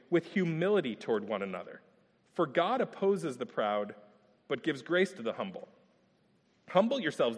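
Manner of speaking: measured, solemn reading of Scripture. Acted. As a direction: read it like the verse carries weight. Reads verse five aloud.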